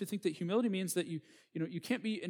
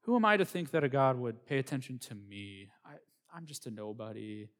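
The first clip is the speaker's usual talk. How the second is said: mock humble; 3 semitones lower than usual. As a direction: play falsely humble, fading low at the end. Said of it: "It sounds like a humble worldview".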